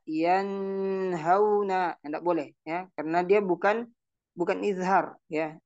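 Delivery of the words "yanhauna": yanhauna with a drawn-out nasal end; wrong reading. Shown as a demonstration. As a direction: hum the nun into yanhauna. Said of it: "Tidak boleh dibaca". (bacaan salah)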